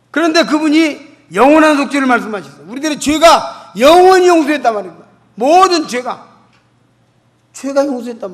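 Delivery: loud, emphatic sermon delivery; fervent pulpit preaching; preaching at full force. Acted. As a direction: proclaim it to the whole congregation. Preaching forgiveness.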